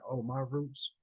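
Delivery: imitating a believer listing his roots; mock Moorish claimant. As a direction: play someone proudly tracing roots. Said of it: "and they're saying".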